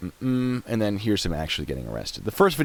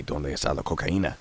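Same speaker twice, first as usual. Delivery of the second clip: put-on joking American-accented Spanish; bad American accent on the Spanish line; awful Spanish accent; 3 semitones lower, 3 dB quieter than usual. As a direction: toss off the running joke in bad Spanish. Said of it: "my awful, awful accent".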